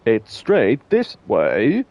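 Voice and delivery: very slow, drawn out; Monty Python opening. Shown as a demonstration. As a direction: stretch it like the Python intro. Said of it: "the start of Monty Python".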